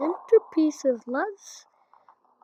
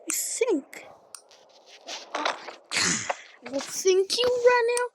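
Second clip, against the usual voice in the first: menacing whisper; 5 semitones higher, 6 dB quieter, much slower than usual. Acted. Threatening whisper to game character.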